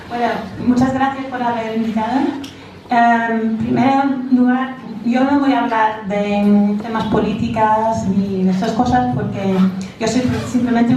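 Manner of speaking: Spanish with an American accent; English speaker's accent in Spanish. Real, not acted. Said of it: "perdona mi español".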